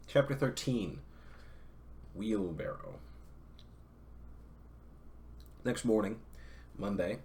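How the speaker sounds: steady read-aloud narrator voice; story narration. Acted. Streamer reading Moby Dick aloud to chat, narrating. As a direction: read the novel aloud to your listeners, evenly.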